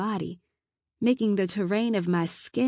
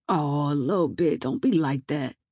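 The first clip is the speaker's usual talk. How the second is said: put-on sleazy drunk man; 3 semitones lower than usual. Drunk man leers at her.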